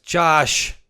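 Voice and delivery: loud, high cry of the name; exasperated coach. Retold or imitated. Offensive coordinator shouting at his quarterback, exasperated. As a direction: yell his name in disbelief. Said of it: "Dorsey's like".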